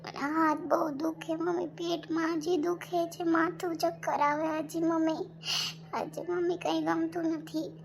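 slow, subdued sick-bed complaint; weak and aching. Acted. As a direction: drag the words out feebly, in mild pain. Patient complains of pain and dizziness. (માંદગીનો ઢીલો, ધીમો અવાજ)

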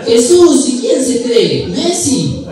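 high, loud indignant punchline; scoffing Argentine. Acted. Argentine dismissing Jesús as a would-be Messi, scoffing. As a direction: exclaim it with mock outrage.

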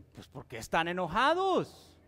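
put-on mild puzzled old man; confundido. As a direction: ask it baffled, pitch swooping up late in the question. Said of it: "Y él confuso". (desconcertado, sin entender nada)

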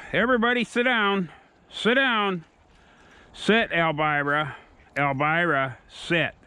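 high, fast sit command to the pack; dog command. Real, not acted. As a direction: order the dogs down, sharp and high.

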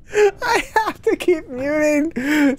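breaking character giggling. Real, not acted. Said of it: "because I'm laughing".

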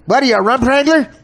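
hammed-up outrage at the phrase; mock incredulous. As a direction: jeer it in fake shock. Mock incredulous jab at Dan.

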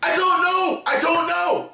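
outraged at the game; frustrated shout. Real, not acted. Frustrated at puzzle answer.

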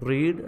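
റീഡ് said with a long "ee", like "reed"; present-tense pronunciation. Shown as a demonstration. Teacher drilling present-tense "read" for learners, റീഡ് with long "ee". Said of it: "ഇതിൻ്റെ pronunciation different ആണ്".

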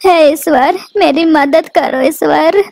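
worried mother crying out her prayer; anxious prayer. Acted. Worried bird prays to God.

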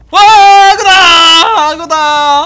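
loud high alarm yell; panicked shout. Real, not acted. Crocodile appears.

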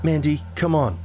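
brushing it off, covering fear; trying to sound unconcerned. A narrator's reading. Scared boy on the phone, faking calm. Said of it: "I tried to sound unconcerned".

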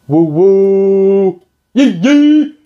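high, loud happy whoops; giddy yelps; excited whooping. Real, not acted. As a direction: cheer like the party just started. Excited boat day cheering.

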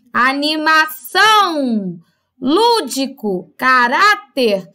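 slow, stretched -ção in "Animação", LÚ in "lúdico", RÁ in "caráter"; "Animação, lúdico, caráter" word by word, each stressed syllable drawn out; tonic syllable stressed. Shown as a demonstration. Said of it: "qual é a sílaba tônica dessas palavras".

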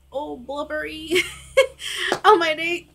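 high, giggly, a little weepy; tearful laughing. Real, not acted. Woman worried about crying before her date, tearful laughing. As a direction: laugh through the last of the tears.

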